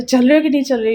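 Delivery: retold scolding. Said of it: "इन्होंने मुझे इतनी तेज़ डांटा".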